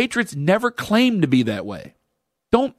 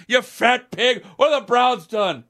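angry fan; 6 semitones higher, slower than usual. Retold or imitated. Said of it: "They look at your Twitter handle".

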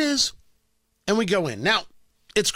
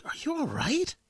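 concerned check; 5 semitones higher, 8 dB quieter than usual. Retold or imitated. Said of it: "my wife's like".

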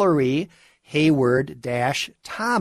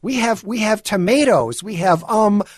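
mocking imitation of a put-on Spanish accent, pitched high; high, hammed-up fake Spanish accent; 8 semitones higher, 3 dB louder than usual. Commentator mocking a celebrity's TV cooking chat, fake Spanish accent. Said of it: "talking in this completely fake Spanish accent".

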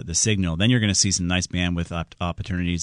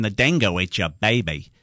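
half-hearted mock Australian accent; Elaine's bad Australian accent. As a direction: attempt an Australian accent, not very well. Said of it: "I'll never do a good Australian accent".

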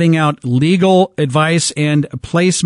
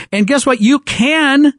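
raised, heated rant; fired up; 6 semitones higher than usual. Real, not acted. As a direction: push it up, worked up. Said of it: "this has me fired up".

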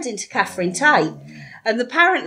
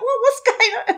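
confused question; 14 semitones higher than usual. Retold or imitated. Confused at sudden escape.

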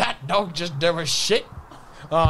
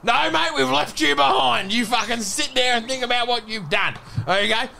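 raised-pitch telling-off; mock scolding; 4 semitones higher than usual. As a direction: play a parent scolding a kid. Voicing a parent scolding.

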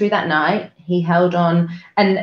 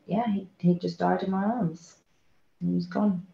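choked up; 2 semitones higher, 9 dB quieter than usual. Real, not acted. Telling of son's death.

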